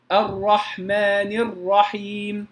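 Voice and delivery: الرحمن الرحيم slow, ر with one or two light taps; correct ra. Shown as a demonstration. Teacher models the correct ra for students, slowly. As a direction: tap the ر of الرحمن once or twice only. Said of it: "فأقول".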